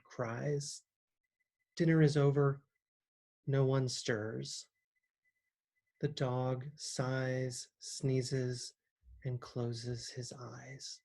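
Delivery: measured poem reading with long pauses; poetry reading. Acted. Poet reads a favorite poet's Ice Out to listeners, measured poetry reading.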